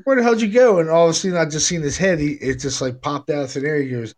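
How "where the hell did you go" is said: mock bewildered. Uncle vanishes in the dream.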